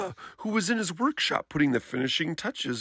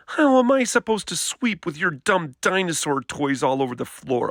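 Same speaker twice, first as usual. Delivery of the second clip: arguing; 4 semitones higher than usual. Acted. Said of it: "argued Sister".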